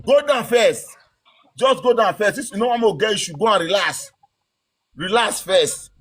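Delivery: soothing calm-down. Real, not acted. Host calming an angry caller, soothing and low.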